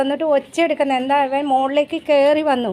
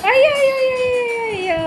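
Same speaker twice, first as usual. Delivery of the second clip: playful exclaiming; 9 semitones higher than usual. Real, not acted. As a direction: exclaim high, easing down at the end. Exclaiming over pet's morning ball game. (ഉയർന്ന സ്വരത്തിൽ കളിയായി നിലവിളിച്ച്)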